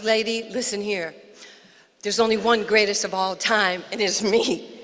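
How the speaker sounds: lightly imitated champ setting someone straight; a hint of a boxer's swagger; Muhammad Ali. Champ correcting a boastful mother, mock self-assured put-down. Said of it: "Oh, Muhammad Ali".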